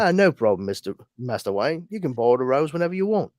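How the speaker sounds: lightly done Cockney butler; Cockney accent. Retold or imitated. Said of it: "an Alfred with a Cockney accent".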